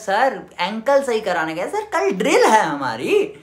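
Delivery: slow, sugary innocent excuse; butter up the sir with a slow sweet lie; sweetly lying. Retold or imitated. Cadet sweetly lying to the instructor, slow and innocent. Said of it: "इतने प्यार से झूठ बोल रहे हैं".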